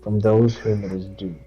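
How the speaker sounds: steady devotional read; scripture reading. Acted. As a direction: read it out like a verse at church. Reads Proverbs aloud.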